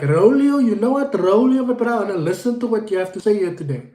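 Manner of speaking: loud, keen call of the host's name; eager viewer voice. Retold or imitated. Fan calling out to the host, loud and eager. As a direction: play the keen fan who wants to learn. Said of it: "because you're like".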